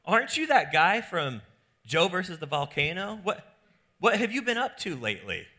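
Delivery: high, excited "Oh, no way"; starstruck friend. Retold or imitated. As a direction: gush like meeting a celebrity. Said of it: "your friend looks over and goes".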